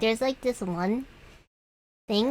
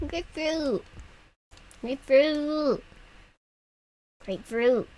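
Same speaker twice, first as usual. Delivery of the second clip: excited exclaim; 6 semitones higher than usual. Real, not acted. Keeps shouting the fun word.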